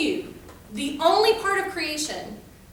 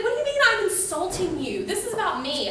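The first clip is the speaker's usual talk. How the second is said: put-on higher, incredulous teen protest; mock indignation; 6 semitones higher than usual. Daughter arguing back at mom, mock indignant. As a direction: imitate an affronted daughter. Retold argument with her mom.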